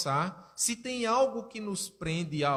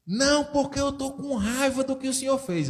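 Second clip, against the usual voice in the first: high, louder daughter refusing; angry daughter; 8 semitones higher, 4 dB louder than usual. Retold or imitated. Daughter refuses her father, high and louder. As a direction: refuse him with a higher, louder voice.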